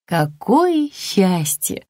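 slow, understated relief; mildly overjoyed mother; relieved joy. A narrator's reading. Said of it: "обрадовалась она".

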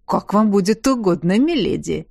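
servile grinning guard; fawning jailer. Acted. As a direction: fawn over her like a bribed guard. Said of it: "Подобострастно осклабился тюремщик".

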